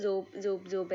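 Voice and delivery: robot sound. Retold or imitated. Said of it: "robo വലുതായ ഒരു ശബ്ദമാണ്".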